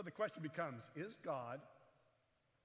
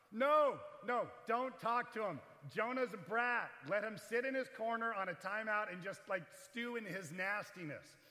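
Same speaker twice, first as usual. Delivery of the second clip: louder, higher, scolding parent about a brat; like a fed-up parent sending the kid to timeout; mock exasperated God; 4 semitones higher, 6 dB louder than usual. God tells the listeners to ignore bratty Jonah, exasperated and loud. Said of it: "But the Lord replied".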